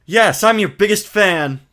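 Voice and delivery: Maya voice. Acted. Streamer voicing Maya to the viewers, girlish and high. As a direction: play an eager young girl. Voices characters reading game text.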